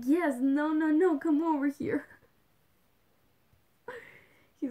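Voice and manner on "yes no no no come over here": put-on louder, higher scolding of a toddler; mock stern to a toddler; firm telling off. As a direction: call the little one back firmly. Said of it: "And I'm like".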